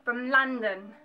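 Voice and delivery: lightly put-on London Cockney; Cockney accent. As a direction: slip into a mock Cockney accent. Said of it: "or we're Cockney".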